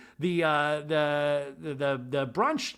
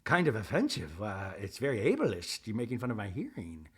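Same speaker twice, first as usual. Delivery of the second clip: lightly voiced offended Meredith.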